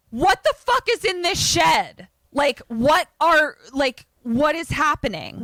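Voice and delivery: high-pitched, loud, freaked-out outburst; hammed-up alarmed cry; horrified disbelief. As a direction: demand to know, totally freaked out. Acted horror at severed arm.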